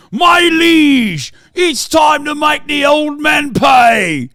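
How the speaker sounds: lightly hammed-up courtier urging his liege; scheming courtier.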